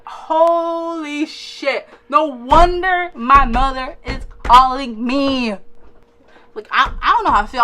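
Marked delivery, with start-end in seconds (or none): 0.1-5.5 shocked exclamation. Retold or imitated. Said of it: "I was like".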